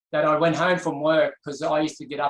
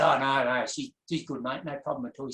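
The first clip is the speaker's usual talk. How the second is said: getting emotional. Retold or imitated. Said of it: "could feel myself getting emotional".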